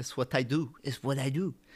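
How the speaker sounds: accent blending French and Russian. Talking about frequent trips, the speaker slips into an accent: French-Russian accent. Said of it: "It's like a French-Russian accent".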